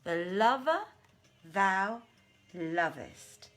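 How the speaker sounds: jinniya's proud challenge. Acted. Maymunah wagers with the Ifrit, proudly. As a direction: boast of your beloved with proud confidence.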